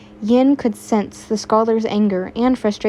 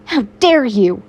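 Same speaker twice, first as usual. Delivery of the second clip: shouted; 5 dB louder than usual. Acted. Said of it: "Midoriya shouted".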